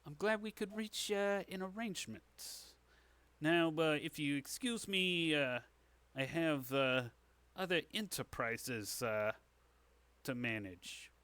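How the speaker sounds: lightly voiced crime boss taking his leave; halting, businesslike crook; shady dealmaker. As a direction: stall politely between phrases. Dealmaker character excuses himself.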